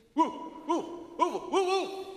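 high howling woo of a dog. Acted. Dog Castor barking at the stranger, high howl. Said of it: "En Castor die begint".

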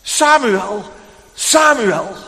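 put-on mysterious voice calling a sleeping child awake; calling a name. A narrator's reading. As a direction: call the child's name from afar. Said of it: "hoort hij dus vroeg in de morgen die stem".

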